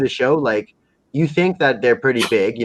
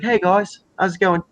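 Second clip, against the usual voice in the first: higher, put-on English greeting; English-accented greeting; 6 semitones higher than usual. Character walks in and greets mates.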